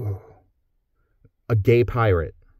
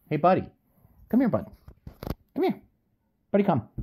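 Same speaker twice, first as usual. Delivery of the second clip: high, coaxing call to a pet, louder; sing-song up high to lure the dog; 11 semitones higher, 4 dB louder, much faster than usual. Real, not acted. Owner calling his little dog over in a high coaxing voice.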